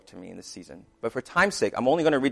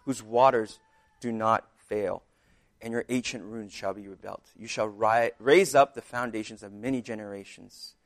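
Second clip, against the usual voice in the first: scripture reading. Acted. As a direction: proclaim the text like a preacher. Reading Isaiah 58 aloud.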